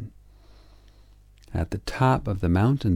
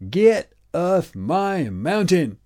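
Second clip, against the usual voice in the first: put-on higher, louder, slow furious old man; angry shout; 10 semitones higher, 5 dB louder, slower than usual. A narrator's reading. Old man throwing the frog out, furious shout. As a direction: drive the frog away with a roar. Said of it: "he shouted".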